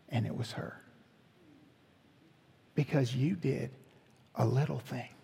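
soft, near-breathless hush; hushed emotional. Real, not acted. Pastor tells the congregation the story's payoff, softly moved. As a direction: let it fall to an awed near whisper.

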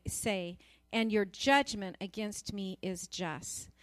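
solemn reading from the pulpit; scripture reading. Acted. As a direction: pray the words aloud as a plea. Reads Psalm 51 aloud.

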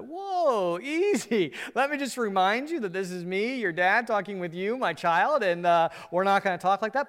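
hammed-up dad warning the kid to watch his tone; a parent correcting a cynical child, in a put-on stern dad voice. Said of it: "You're like".

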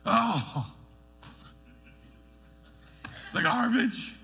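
father imitating his son's sulky whine; mock kid attitude. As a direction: play the lazy son giving guff. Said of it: "give me attitude".

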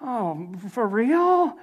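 slow, drawn-out, deflated reaction; crestfallen. Acted. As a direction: let the air drain out of it. Deflated reply to enemy's one comment.

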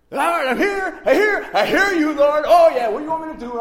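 high, very loud frantic outburst; yelped, over-eager reply to God; all excited. Retold or imitated. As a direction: re-enact freaking out at full volume. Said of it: "I'm like all excited and everything".

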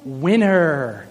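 slow, mock-momentous announcement; Robert. Father naming child number six, mock-proud announcement. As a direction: reveal the name deliberately, lightly acted. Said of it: "Robert says".

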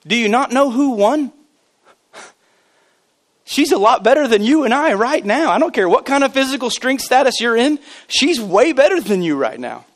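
emphatic pulpit proclamation; impassioned preaching. Real, not acted. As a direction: preach it out with rising fervor. Preaches with force.

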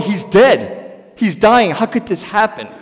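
loud, stricken cry of grief; despairing outcry. Retold or imitated. Mourners at the cross crying out in loud despair. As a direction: cry out that he is dead. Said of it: "They were all going".

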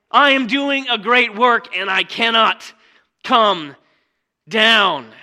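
loud, slow climactic declaration; loud proclaiming. Acted. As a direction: land each word, then drop down.

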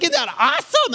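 high, loud, thrilled; excited. Retold or imitated. Rider shouting to the person beside them, thrilled and loud. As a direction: gush at the person next to you.

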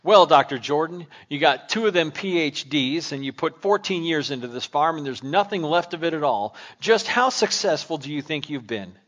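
mildly haughty, talking down, loud on the opening; a reporter mocking a farmer's failure, lightly haughty. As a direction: needle him with a superior air. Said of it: "said in a haughty voice".

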